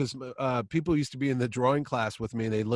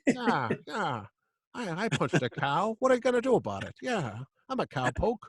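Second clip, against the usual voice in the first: mock cowboy voices; 6 semitones higher than usual. Mock cowboy dialogue, Brooklyn joke.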